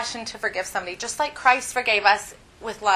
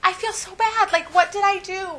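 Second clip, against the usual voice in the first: retold crying; 9 semitones higher than usual. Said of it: "I was crying".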